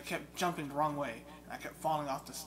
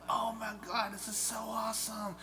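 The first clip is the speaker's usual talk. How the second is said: retold excitement; 7 semitones higher than usual. Retold thrill at the game.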